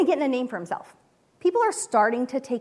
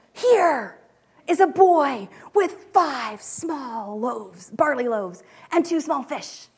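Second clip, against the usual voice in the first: a bright, eager announcement; hopeful announcing; 3 dB louder, much slower than usual. Shown as a demonstration. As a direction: proclaim it like the start of a miracle. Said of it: "Is this Andrew who is pronouncing the beginning of a miracle".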